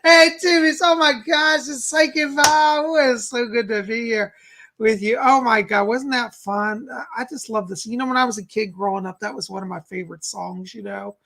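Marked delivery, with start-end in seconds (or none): 0.0-6.9 breathless after singing; out of breath. Real, not acted. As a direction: talk between quick breaths after a song. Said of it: "I'm out of breath after singing".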